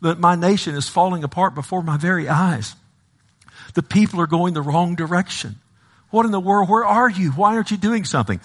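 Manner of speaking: high-pitched lament to God; crying out to God. Retold or imitated. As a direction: plead as the despairing prophet. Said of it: "he's crying out".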